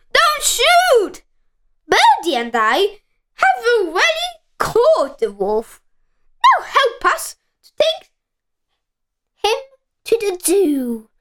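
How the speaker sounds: put-on high boyish shout to the hunters, calling from up a tree. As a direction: make them hear you, don't shoot. Peter calls to the hunters.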